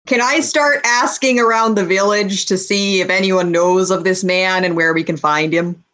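lightly Minnesotan furbolg; a hint of Fargo accent. Furbolg asking around the village, light Fargo accent. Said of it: "I'm going full Fargo over here".

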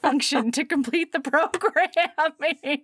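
mock confession breaking into laughter; laughing confession. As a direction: stretch the last word into a laugh. Voicing his embarrassed confession while laughing.

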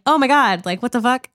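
high, startled "oh my God"; shocked gasp. Retold or imitated. Diners watching the sous chef shoot himself, imitated shocked outburst. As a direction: react as if the gunshot just went off.

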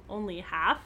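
low, playful little question; teasing. Acted. Daughter teasing her father about his fee, playfully. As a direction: tease him gently over the fee. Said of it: "she teased".

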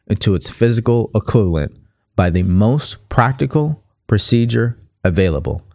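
measured, deliberate read from a book; book reading aloud. Acted. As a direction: read the passage out clearly for listeners.

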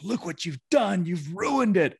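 put-on high, whining kid complaining; whiny child voice. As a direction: whine it like a sulky teenager. Son's complaint voiced in story.

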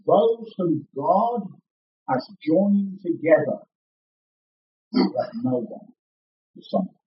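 slow, weighty wedding pronouncement with long pauses; slow and solemn. Shown as a demonstration. Minister to the whole congregation at a wedding, slow and solemn. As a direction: intone it solemnly, pausing between phrases. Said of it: "I always do this slowly and solemnly".

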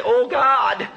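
preacher's impassioned plea; fervent prayer. Acted. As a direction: cry out to God with longing. Preacher voicing a committed prayer.

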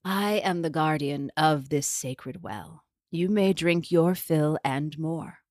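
a lightly voiced old hag, slow; croaking hag. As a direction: croak it like an old well guardian. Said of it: "the voice croaked".

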